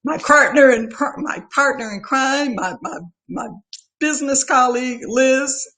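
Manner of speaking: holding back tears while thanking friends; teary-eyed. Real, not acted. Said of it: "this is where I get teary-eyed here".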